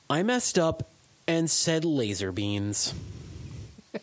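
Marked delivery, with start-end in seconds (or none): 0.1-2.9 dejected. Acted. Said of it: "dejectedly t-, taking off my spacesuit".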